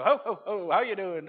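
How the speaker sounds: a hint of booming Santa cheer; Santa Claus. Santa on the airport screen greeting each passenger, mild jolly voice. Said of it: "And Santa Claus would go".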